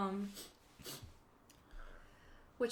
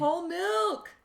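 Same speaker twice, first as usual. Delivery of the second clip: higher and louder, eager to say it; excited exclamation; 8 semitones higher, 9 dB louder, slower than usual. Real, not acted. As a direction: blurt it out with relish. Exclaiming her preference.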